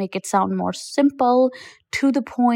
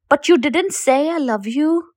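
higher-pitched, pointed disbelief, rising at the end; incredulous question; 5 semitones higher than usual. Retold or imitated. Coach challenging women who never told their husbands, incredulous. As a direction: challenge them as if you can't believe it.

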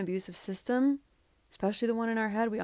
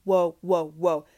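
stunned realization; 5 dB louder than usual. Retold or imitated. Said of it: "you're like".

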